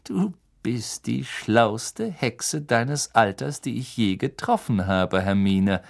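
hushed, breathy near-whisper; pained whisper. Acted. Teacher praises his clever student in a pained whisper. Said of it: "Lupin lachte gequält".

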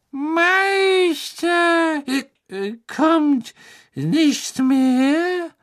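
hohe Elfenstimme, betrunken gedehnt; lallende Elfe. A narrator's reading. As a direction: lall es wie eine beschwipste Elfe. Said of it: "dann lallte sie". (hohe, lallende Elfenstimme)

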